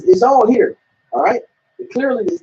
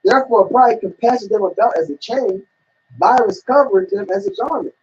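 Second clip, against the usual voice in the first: scripture reading. Shown as a demonstration. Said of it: "I'm gonna keep reading".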